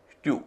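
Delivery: "स्टू" said as styoo, with y before oo; y-glide. Shown as a demonstration. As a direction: slip a y between t and oo in "स्टू". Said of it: "उसका उच्चारण य हो रहा है".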